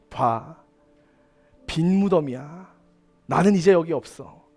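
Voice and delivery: hushed tender voice of Jesus; gentle comfort. Acted. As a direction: reassure them softly, like calming a scared friend.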